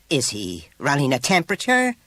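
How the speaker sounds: high, alarmed question; shrill. A narrator's reading. Mother hearing her son seems ill, shrill. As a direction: let the worry send your pitch up. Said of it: "The mother's voice went shrill".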